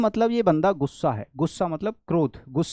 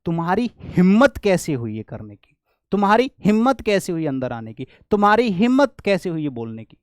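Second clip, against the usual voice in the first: indignant how dare you; 4 dB louder than usual. Shown as a demonstration. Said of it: "मैंने कहा".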